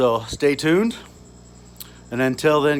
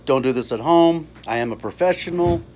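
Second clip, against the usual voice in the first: cigarette in mouth; 2 semitones higher, faster than usual. Real, not acted. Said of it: "let me light my cigarette".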